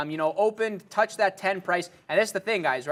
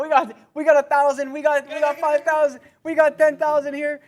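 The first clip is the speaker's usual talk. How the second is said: higher, louder auctioneer patter; 10 semitones higher, 8 dB louder than usual. Retold or imitated. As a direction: rattle it off like an auctioneer. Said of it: "somebody's saying you sound like an auctioneer".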